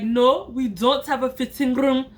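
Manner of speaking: mimicked African accent on the reply; accidental African-accent imitation; copied African accent. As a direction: answer in a borrowed African accent. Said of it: "stop talking in this accent".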